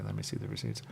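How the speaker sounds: low stern demand. Retold or imitated.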